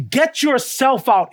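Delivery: slow right down and lean hard on "yourself"; stress on YOURSELF. Shown as a demonstration. Preacher spells out God's command to Abraham, "yourself" stretched emphatically. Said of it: "Why the emphasis there?".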